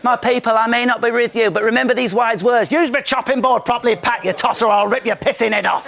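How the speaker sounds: lightly voiced solemn sage address; mock Dalai Lama. Anta addressing his people from exile, lightly solemn. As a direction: announce it like a wise leader in exile. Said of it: "like the Dalai Lama in exile".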